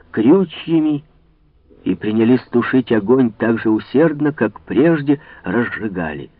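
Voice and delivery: ordinary delivery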